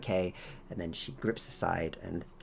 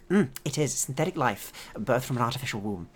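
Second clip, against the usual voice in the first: higher, louder woman scientist voice; proud scientist; 13 dB louder than usual. Acted. Scientist tells guests of her artificial life, high and eager. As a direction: explain briskly, pitched up.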